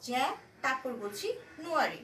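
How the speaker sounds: জ্যা, a clear pause, then নুয়ারি; syllable split. Shown as a demonstration. Teacher splits জ্যা and নুয়ারি for the class. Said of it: "মনে হবে যেন আমি একটু থেমে তারপর যাচ্ছি".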